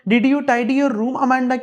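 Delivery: scolding mother. Acted. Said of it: "उसे डांटती है".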